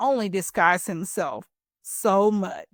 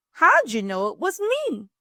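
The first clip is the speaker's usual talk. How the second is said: mild howl; 7 semitones higher than usual. Acted. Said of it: "howled Turkey".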